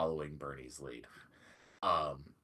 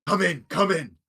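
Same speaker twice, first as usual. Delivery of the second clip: loud, higher, delighted greeting; joyful welcome; 8 semitones higher, 9 dB louder than usual. Acted. Sildar loudly welcoming Bernie back, overjoyed. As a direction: throw the door open for a friend back safe. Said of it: "and he says".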